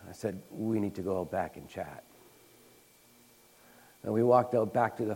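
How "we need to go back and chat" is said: soft invitation. Retold or imitated. Inviting friend to talk.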